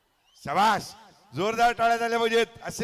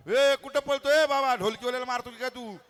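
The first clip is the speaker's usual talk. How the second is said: calling out; 4 semitones higher than usual. Real, not acted. Calling out to a child running off.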